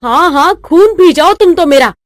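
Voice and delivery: mildly irate sarcasm; acted huffy outburst; angry retort. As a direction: snap back at a nagging husband. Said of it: "सास गुस्से से पैर पटकते हुए".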